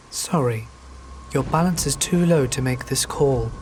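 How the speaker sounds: flat automated phone message voice; monotone recorded voice. Retold or imitated. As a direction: read it like a robotic recording. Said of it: "a monotone voice say".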